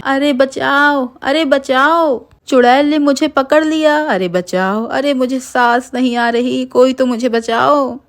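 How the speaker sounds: being strangled, begging to be saved; screaming for help. A narrator's reading. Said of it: "तभी मोहन जोर जोर से चिल्लाने लगता है".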